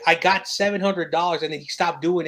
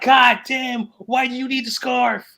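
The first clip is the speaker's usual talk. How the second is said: louder and higher, a retold exasperated yell; exasperated outburst; 6 semitones higher, 4 dB louder, slower than usual. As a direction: throw up your hands at the kid in disbelief. Retelling frustration with crying kid.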